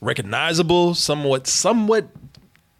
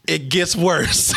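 slow doom; 4 semitones lower, much slower than usual. Pretend.

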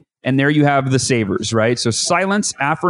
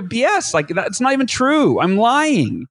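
higher scoffing inner voice calling it out; inner skeptic voice; 8 semitones higher, slower than usual. Retold or imitated. The doubting mind answering the affirmation, high and scoffing. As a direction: scoff at your own affirmation, pitched up. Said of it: "you're like, you know".

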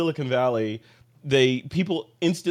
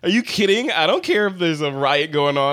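mock indignant owner; 3 semitones higher, 5 dB louder than usual. Mocking a precious Leica owner.

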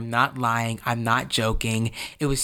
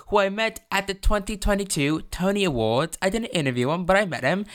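put-on a light, unplanned British accent, a touch higher; slipped British accent; 5 semitones higher, faster than usual. Host recalling meeting Hugh Jackman, in a light British accent. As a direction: drift into a hint of British accent while gushing. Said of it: "I don't know why I have a British accent".

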